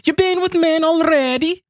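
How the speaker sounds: hammy Italian creep; Italian accent. Pretend. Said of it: "Can you do an Italian accent?".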